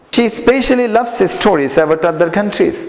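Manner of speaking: slow, careful English read-aloud for pupils. Shown as a demonstration. Teacher reading slowly to the class. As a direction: read each word slowly so students copy. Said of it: "উচ্চারণগুলো খেয়াল করবা".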